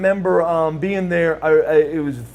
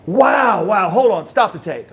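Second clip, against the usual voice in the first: high, loud sudden stop; the dad suddenly halting the tape, a touch of alarm; excited retold outburst; 4 semitones higher, 4 dB louder than usual. Father stopping the tape mid-watch, retold excited outburst.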